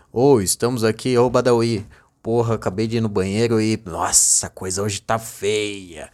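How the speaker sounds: low-pitched, pretending not to know it's recording; low, offhand fake candid chatter; feigned off-mic chat. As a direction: act casual, as if caught before the show. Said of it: "é aquele famoso migué".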